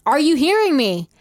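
loud, high preacher's call to the flock. Retold or imitated. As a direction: boom it out like a revival preacher. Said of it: "He sprinkled his sermons with".

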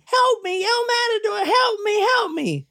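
very high mock scream; retold screaming for help. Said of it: "She started screaming".

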